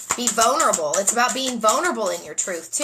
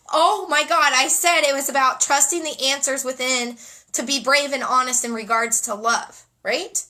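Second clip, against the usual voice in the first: amazed; 3 semitones higher, 4 dB louder than usual. Real, not acted. Amazed at card match.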